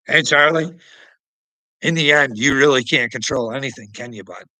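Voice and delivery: calling out. Real, not acted. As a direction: shout it over to Charlie. Calling out to Charlie.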